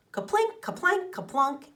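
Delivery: high, bright plink sounds; ping each word like a berry in a tin pail; playful berry-drop sounds. A narrator's reading.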